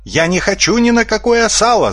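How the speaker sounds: high, frightened squeal. A narrator's reading. Svinomyas refuses to be cut up, squealing. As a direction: squeal like a terrified piglet. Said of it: "завизжал Свиномяс".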